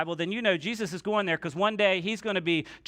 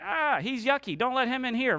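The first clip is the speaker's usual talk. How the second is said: higher-pitched mock revulsion; mock disgust; 5 semitones higher than usual. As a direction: recoil as if from something yucky. Acting out disgusted churchgoers rejecting lepers.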